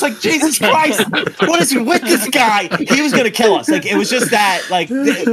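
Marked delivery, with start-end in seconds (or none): 0.2-2.7 put-on panicked kid. Kid panicking during chase.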